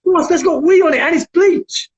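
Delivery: high-pitched urgent plea; re-enacted horrified protest; alarmed warning. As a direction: warn your brother off in alarm. Alarmed warning to drunk brother, retold.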